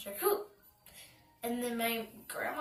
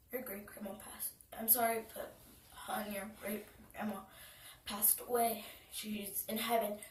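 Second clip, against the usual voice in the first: soft, hesitant retelling of mother's news; hushed, halting imitation of a mother; gently breaking bad news; 7 dB quieter than usual. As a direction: break it quietly, haltingly, as a retold quote.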